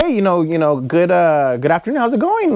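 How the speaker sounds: acted-out hello from a boss; boss's friendly greeting. Boss greets friend in retold scene.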